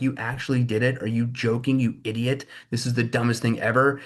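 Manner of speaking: lightly acted incredulous outburst; mock freak-out. Imitating everyone reacting to the tariffs, mock freak-out. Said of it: "everyone's freaking out like".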